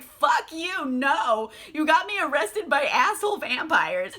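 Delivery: high-pitched, emphatic retort; mock indignation. Louis refusing Lestat after the arrest, mock indignation. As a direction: reject him with exaggerated outrage.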